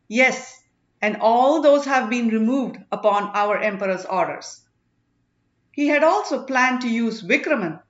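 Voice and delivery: lightly voiced sage accusing before a crowd; stern sage's address. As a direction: lay out the charges with grave authority. Sirithondar continues his address.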